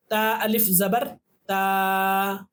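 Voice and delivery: ता अलिफ ज़बर ता, each part spaced and slow; slow spelling drill. Shown as a demonstration. Teacher spelling letters for practice, slow and clear. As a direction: spell it out slowly for learners. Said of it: "इसकी practice कर लेते हैं".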